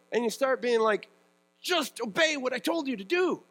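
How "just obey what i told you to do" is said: raised, fed-up parent voice near a shout; exasperated parent. Retold or imitated. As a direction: scold the kid who keeps disobeying. Frustrated parent to child.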